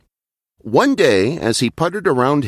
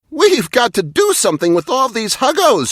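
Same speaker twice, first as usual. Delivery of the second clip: high, whinnying horse voice, much higher; 13 semitones higher, 3 dB louder than usual. A narrator's reading. Penelope the horse urging Muggo, whinnying high. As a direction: neigh the words like an urgent pony. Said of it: "she whinnied".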